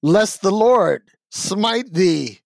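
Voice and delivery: slow, solemn mock scripture; mock King James preacher. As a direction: intone it like old scripture. Mock biblical plea for ratings.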